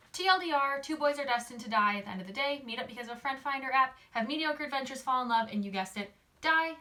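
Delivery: high, loud, punchy summary; upbeat recap. Real, not acted. Wrapping up the book for viewers, loud bright recap. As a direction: sell the recap with energy.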